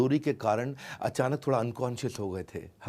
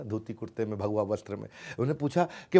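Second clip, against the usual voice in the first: normal talking voice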